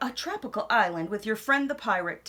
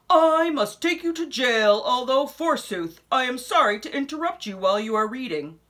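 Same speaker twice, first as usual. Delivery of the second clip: louder, pompous sheriff voice; a stuffy lawman apologising as he arrests; 5 dB louder than usual. Acted. Sheriff of Nottingham arresting a reader, loud and pompous.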